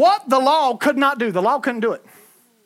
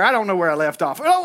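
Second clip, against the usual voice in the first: usual speaking voice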